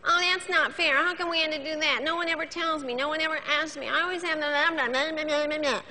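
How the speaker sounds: mildly mock the moaning "not fair" whine; whiner impression. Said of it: "Under the category of hurt are our whiners".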